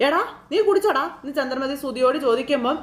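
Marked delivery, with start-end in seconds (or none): 0.1-1.0 much higher, sharp accusing question; shocked scolding. Retold or imitated. Chandramathi confronting her son about drinking, shocked. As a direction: catch him out, shocked.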